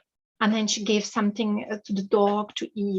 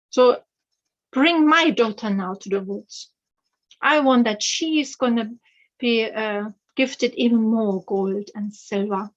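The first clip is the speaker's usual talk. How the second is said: loud, commanding demand; bossy order; 4 dB louder than usual. Acted. Stepmother commanding her husband to take the daughter, loud and bossy. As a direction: bark the order at your husband.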